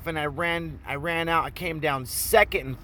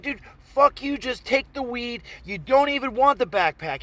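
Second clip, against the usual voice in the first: high-pitched exasperated protest; acted heated argument; 8 semitones higher than usual. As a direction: argue your way out with indignation. Arguing with robber, acted.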